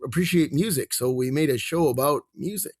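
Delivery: boilerplate answer. Retold or imitated. Jim giving stock interview answers about a children's show, perfunctory. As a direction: recite a canned explanation on autopilot. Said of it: "Jim's saying boilerplate".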